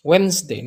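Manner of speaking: Wednesday naik di WENS lalu turun. Shown as a demonstration. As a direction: naikkan dulu, baru turunkan di akhir. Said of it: "Naikkan ke atas dia, baru turun lagi". (Wednesday dengan nada naik-turun)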